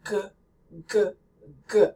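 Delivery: g as a breathy French R from the throat. Shown as a demonstration. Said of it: "French R".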